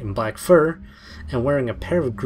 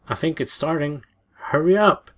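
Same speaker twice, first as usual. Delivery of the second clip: urgent call; 4 semitones higher, 4 dB louder than usual. Acted. Matt urging her on phone.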